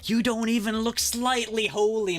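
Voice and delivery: high-pitched sarcastic roast; mocking jab. Real, not acted. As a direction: scoff at him playfully. Mocking the priest's claim.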